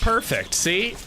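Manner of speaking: high put-on British accent; a pleased British "perfect". Streamer praising a clip in a high British accent. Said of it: "best British accent I've ever done".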